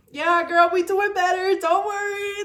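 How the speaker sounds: high, loud and chirpy; upbeat self-pep talk. Retold or imitated. Recording an update to herself, high and chirpy. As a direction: cheer yourself on like a hype friend. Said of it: "I'll grab my phone and I'll be like".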